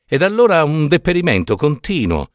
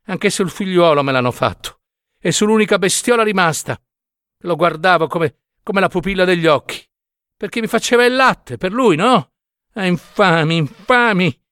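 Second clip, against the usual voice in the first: climbing much higher and more agitated into a cry; desperate mother cursing her enemies, higher and higher; rising lament; 7 semitones higher than usual. A narrator's reading. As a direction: let her grievance boil over into curses. Peasant woman rails at the evil eye.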